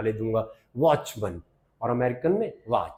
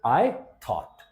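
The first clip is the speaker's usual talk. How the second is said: slow demo. Shown as a demonstration. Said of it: "थॉट".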